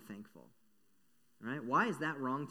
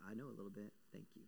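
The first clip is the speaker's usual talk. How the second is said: much softer, lower, downplayed answer; low-key reply; 5 semitones lower, 17 dB quieter, much faster than usual. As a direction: shrug it off modestly. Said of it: "You just give a low key".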